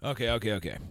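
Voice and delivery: winded after a long rant; catching breath between words. Real, not acted. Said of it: "I'm just about out of breath and out of rant".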